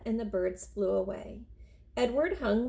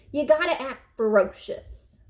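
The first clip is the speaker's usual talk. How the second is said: louder, higher coaxing call; old woman coaxing her scarecrow, louder; old woman urging; 4 semitones higher, 6 dB louder than usual. Acted. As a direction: urge the rabbit to look fierce.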